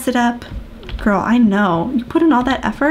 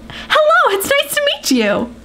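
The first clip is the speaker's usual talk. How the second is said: high sweet voice; 13 semitones higher than usual. Pretend. Voicing Leia.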